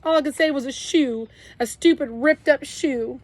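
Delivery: high, loud sobbing confession; crying. A narrator's reading. Kenny confesses to Byron about Joey, high and sobbing. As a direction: pour it out between sobs. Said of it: "I couldn't stop crying".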